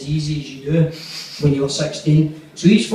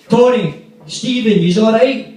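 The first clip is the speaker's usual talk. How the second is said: calling out; 5 semitones higher than usual. Retold or imitated. Neighbour calling out from car.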